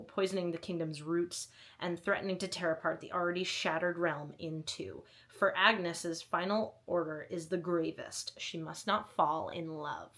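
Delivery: dramatic back-cover narration; book blurb reading. Acted. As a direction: read it like a story trailer. Reads a book blurb aloud.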